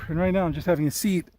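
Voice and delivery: winded, phrases broken by breaths. Real, not acted. Hiker resting halfway up the dune, out of breath. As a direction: pause to catch your breath between phrases. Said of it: "I can't breathe".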